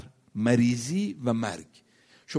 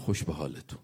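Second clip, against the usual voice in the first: low, hushed aside, much softer; quietly; 9 semitones lower, 5 dB quieter than usual. Retold or imitated. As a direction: say it softly, low in pitch, as a quiet remark. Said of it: "آهسته گفت".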